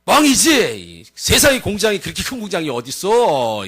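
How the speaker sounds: lightly acted scoffing; doubting villager. Villager doubts the cousin's tale, lightly acted scepticism. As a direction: scoff like a disbelieving neighbour. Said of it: "이러면".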